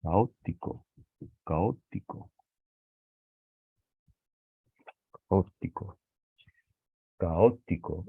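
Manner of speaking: "caótico" slowly broken between a and stressed ó; split hiatus. Shown as a demonstration. Teacher working out an esdrújula, split vowels. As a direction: sound out "caótico" with ó as its own syllable. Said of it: "se separan".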